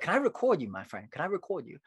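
put-on voice of an eager stranger, swooping in pitch; imitated admirer. Man asking to film the poet, imitated voice. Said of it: "Or he talked like that".

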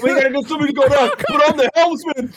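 mock urgent orders. Voicing boater giving urgent orders.

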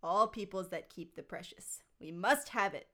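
a hint of scheming Gollum, theatrical; understated stagey creature voice; lightly voiced theatrical Gollum. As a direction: read it as a mildly theatrical Gollum. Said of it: "a theatrical voice".

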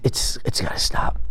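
quiet vow to yourself; hushed self-reproach; whispered resolve. Real, not acted. Resolving to change.

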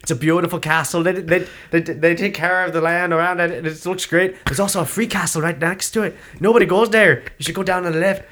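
a hint of an Irish landlady; helpful B&B host. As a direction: imitate a host eagerly tipping off guests.

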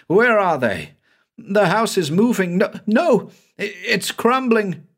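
high, panicked voice of a fleeing man; frantic Banks. A narrator's reading. Trapped man hunts the cellar steps as beams fall, frantic. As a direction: scramble for the steps in terror.

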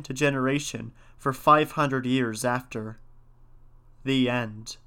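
measured folk-tale reading; story narration. A narrator's reading. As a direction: read it as an old legend, each phrase set apart. Reads a folk tale aloud.

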